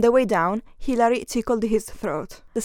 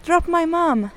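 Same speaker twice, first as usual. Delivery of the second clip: yelled; 7 semitones higher, 3 dB louder than usual. Acted. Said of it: "Hilary yelled".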